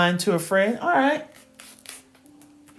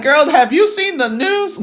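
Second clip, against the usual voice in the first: quoting a friend, laughing; 8 semitones higher, 6 dB louder than usual. Retold or imitated. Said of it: "she's like".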